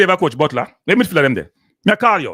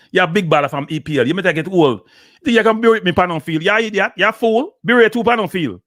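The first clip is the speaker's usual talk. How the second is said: mock berating; 3 semitones higher than usual. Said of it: "the man berate him".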